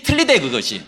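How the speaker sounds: ordinary delivery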